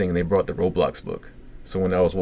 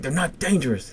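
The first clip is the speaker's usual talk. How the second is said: high-pitched retold insistence; agitated protest; 9 semitones higher than usual. Patient arguing with nurses over toys, agitated. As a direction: insist with the voice jumping up. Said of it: "he's getting, like, really agitated".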